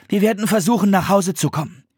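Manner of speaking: put-on high, earnest child's voice; reassuring boy. A narrator's reading. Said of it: "sagte Philipp".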